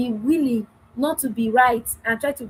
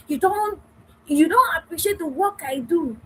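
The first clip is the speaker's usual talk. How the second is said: higher, accusing complaint; blaming tone against the assertive take; 4 semitones higher than usual. Shown as a demonstration. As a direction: throw it at him like a charge. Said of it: "I did not come to accuse and say".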